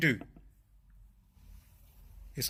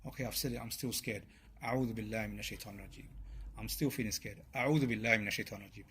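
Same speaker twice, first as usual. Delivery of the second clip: softer, fast mumbled refuge plea; half-hearted doubtful muttering; 3 semitones lower, 7 dB quieter, faster than usual. Pretend. Preacher imitating a doubter reciting the refuge prayer, softer and unsure. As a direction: mumble it without conviction. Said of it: "when you say".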